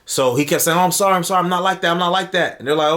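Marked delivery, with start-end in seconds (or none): 0.8-2.6 repeated apology, lightly imitated; mock apologetic. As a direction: retell a mildly anxious, insistent apology. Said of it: "kept emphasizing, he felt so bad".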